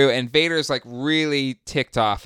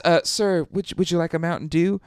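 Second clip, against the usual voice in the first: higher, quick nervous offer; timid underling; 6 semitones higher, faster than usual. Acted. Underling nervously offers Vader a soda, higher and rushed. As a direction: stammer it up to your scary boss.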